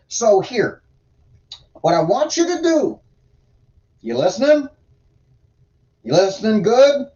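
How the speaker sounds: a hint of a stern, exasperated deity, now and then throaty; God voice. Reader voicing God scolding Ezekiel for sitting idle, lightly put-on folksy God voice. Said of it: "God voice is a little hard on the throat".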